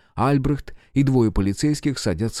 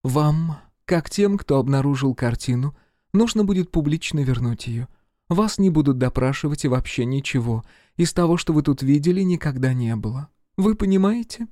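even voice; 6 semitones higher than usual. A narrator's reading. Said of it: "произнесла ровным голосом".

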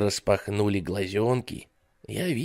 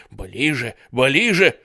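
building to a shout; 4 semitones higher, 6 dB louder, slower than usual. Acted. Ghost creeping closer.

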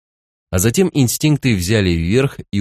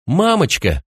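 put-on crying child; 8 semitones higher, slower than usual. A narrator's reading. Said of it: "малыш заплакал".

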